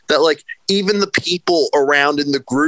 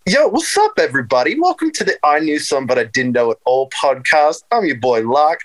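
hype podcast host intro. Pretend. Host takes over his friend's show with an announcer intro. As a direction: open the show like a pumped-up radio host. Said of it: "I'm waiting".

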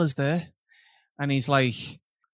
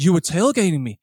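mimicked old man's foreign accent, vaguely European. Old man accusing a driver of tailgating, European accent. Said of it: "some kind of European accent".

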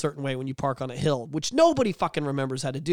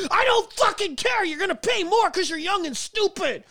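mocking insurance agent. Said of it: "I'm like".

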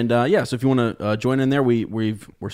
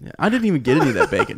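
laughing; 5 semitones higher, 3 dB louder, much faster than usual. Real, not acted. Laughing about missing bacon.

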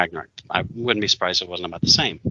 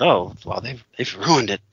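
mock fan complaint; 3 semitones higher than usual. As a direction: parody the fans who moan it's all ruined. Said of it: "people want to talk about".

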